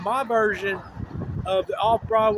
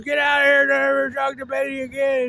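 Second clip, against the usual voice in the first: much louder and higher, a mock fatherly yell; dad shouting; 5 semitones higher, 4 dB louder than usual. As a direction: throw him out of the house, loud and high. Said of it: "her dad goes".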